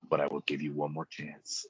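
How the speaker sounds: sudden, abrupt, low, very quiet hush. Retelling how a screaming man suddenly turned calm, imitating someone going really quiet. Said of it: "he gets really quiet".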